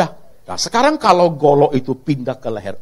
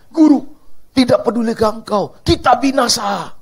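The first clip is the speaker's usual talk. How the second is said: desperate plea; 5 semitones higher than usual. Acted. Disciples begging the sleeping Jesus, desperate. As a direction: beg the master to wake up.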